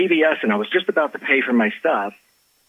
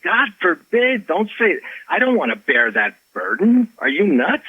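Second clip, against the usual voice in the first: aghast, higher-pitched retold objection; retold appalled protest; 7 semitones higher than usual. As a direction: pitch leaps up in mock alarm. Retelling his alarmed refusal of suggestion.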